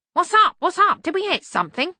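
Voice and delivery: put-on high, loud cranky old man; startled old servant. A narrator's reading. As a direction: wake up alarmed and cranky. Albert voiced, startled awake.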